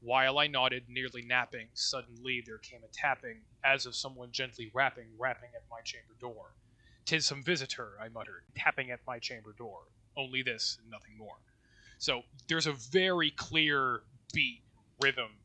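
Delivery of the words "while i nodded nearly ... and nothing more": poem recitation. Shown as a demonstration. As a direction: lean into the trochaic beat. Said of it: "the opening line here is".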